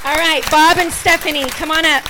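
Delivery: loud summons across the church; wife inviting nursery volunteers forward, calling out. Real, not acted. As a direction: call them up warmly but loud. Calling couple to front.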